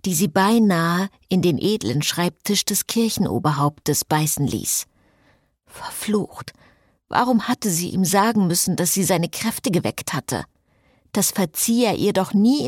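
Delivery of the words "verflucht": sharp breathless whisper of a curse; hissed frustrated oath. A narrator's reading. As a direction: spit the curse out under your breath. Cécile curses inwardly.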